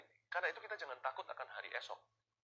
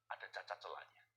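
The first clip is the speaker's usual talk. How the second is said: whisper; 8 semitones lower, 8 dB quieter than usual. Real, not acted. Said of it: "whispered line".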